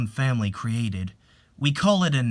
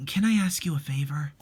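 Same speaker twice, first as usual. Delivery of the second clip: whispered favor. Acted. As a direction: hush it, almost afraid to ask. Shy whispered request.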